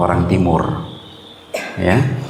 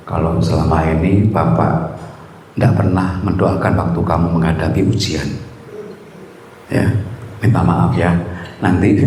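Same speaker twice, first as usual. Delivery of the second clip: a gentle, lower father's voice; tender apology to son; 4 semitones lower than usual. Retold or imitated. Pastor hugging his son, lowered gentle apology. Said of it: "Saya rangkul anak saya".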